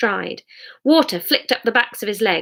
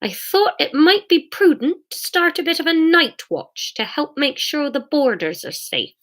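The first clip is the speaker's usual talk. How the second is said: lightly voiced, higher older neighbour; sheepish elderly lady; 6 semitones higher than usual. Missus Shue justifies her night watch, lightly voiced elderly lady. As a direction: explain yourself in a raised character voice.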